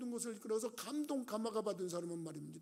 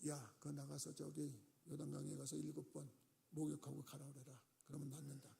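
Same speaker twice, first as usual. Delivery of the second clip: quiet, softer, lower, casually dismissive; offhand order; 5 semitones lower, 11 dB quieter than usual. Acted. Elisha telling his servant to send the general away, quietly offhand. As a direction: toss the instruction off without looking up.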